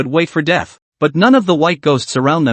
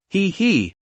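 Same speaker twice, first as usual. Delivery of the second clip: short sly snicker; smirking chuckle; 4 semitones higher, 5 dB quieter than usual. Acted. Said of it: "flashed a smirk".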